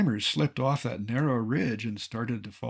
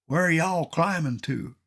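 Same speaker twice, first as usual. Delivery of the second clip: a light hint of a Texas accent, pitched higher; 5 semitones higher than usual. A stranger on the summit asks the climbers, in a light Texas accent. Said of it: "in a Texas accent".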